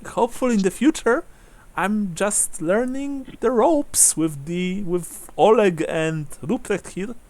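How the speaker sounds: put-on high-pitched young woman, earnest; Brunhilde. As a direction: speak up lightly as a hopeful novice. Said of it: "says Brunhilde".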